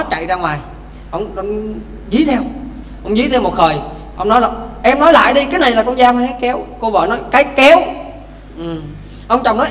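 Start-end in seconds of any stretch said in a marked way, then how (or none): 4.8-6.6 demanding husband. Acted. Husband chasing wife demands. 7.3-7.8 defiant wife. Acted.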